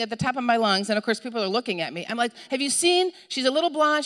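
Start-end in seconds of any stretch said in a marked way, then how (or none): 2.5-4.0 re-enacted high, urgent plea; acting a panicked parent asking strangers; frantic asking. Mother asks shoppers about her lost child, acted frantic.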